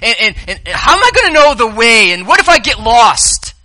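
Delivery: high, worried questioning voice; mock-anxious disciple asking the way. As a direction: plead like a lost follower.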